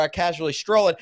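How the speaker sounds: ordinary talk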